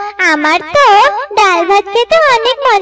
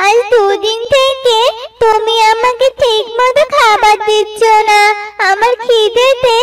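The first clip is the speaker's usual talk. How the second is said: plaintive hungry daughter, acted; crying child; 9 semitones higher than usual. Hungry daughter complaining to mother, mildly tearful. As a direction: whine to mother with mild distress. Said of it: "কাঁদিস না মা".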